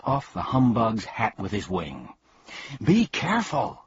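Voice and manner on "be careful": high urgent call; shouted warning. Acted. Milo warning the bee of the cane, high shout. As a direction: warn him fast. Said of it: "shouted Milo".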